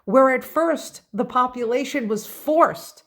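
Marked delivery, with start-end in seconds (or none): 2.3-3.0 forced given a firm push; forced said with a light extra push; stress on forced. Real, not acted. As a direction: lean on the word forced. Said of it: "I stress and emphasize the word forced".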